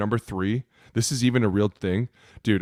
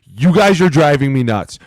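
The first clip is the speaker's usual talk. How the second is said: frustrated rant; 3 semitones higher, 7 dB louder than usual. Real, not acted. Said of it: "I am so sick of this shit".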